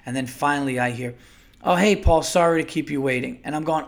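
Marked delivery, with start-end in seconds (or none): 1.6-3.4 fake nice. Supervisor finally picking up the call, imitated in fake nice. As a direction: lightly imitate a fake-friendly customer rep. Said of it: "with that fake nice".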